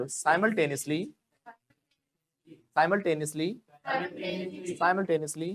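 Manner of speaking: "simultaneously" as SY-mul-TEN-is-lee; model pronunciation. Shown as a demonstration. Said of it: "क्या बोला मैंने?".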